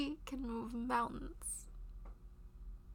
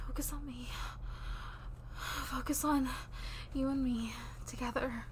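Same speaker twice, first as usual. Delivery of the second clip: soothing lover; 5 dB louder than usual. Acted. Guiding partner during intimacy.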